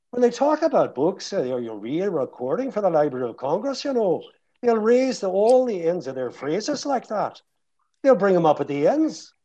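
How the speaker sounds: Northern Irish accent. Shown as a demonstration. Actor contrasting it with Dublin, Northern Irish accent. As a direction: lift the end of every phrase like Northern Irish. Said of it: "In Northern Ireland, they do a completely different".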